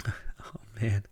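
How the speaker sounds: soft whispered sigh of delight; hushed, overwhelmed exhale; awed whisper. Real, not acted. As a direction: let it out under your breath. Overcome by excitement about his rifle.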